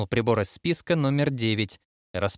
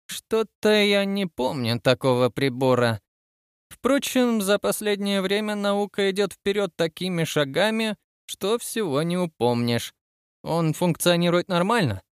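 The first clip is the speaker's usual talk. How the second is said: inspecting admiral; 7 semitones higher than usual. Acted. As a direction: muse aloud as a pompous old-school inspector. Admiral muses over the device.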